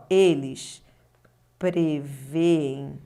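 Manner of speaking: "prevêem" stretched slowly as pre-vê-em; slow teacher demo of prevêem, its two e's apart; slow syllable split. Shown as a demonstration. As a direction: draw out "Eles prevêem" syllable by syllable. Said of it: "Só pensar comigo, ó".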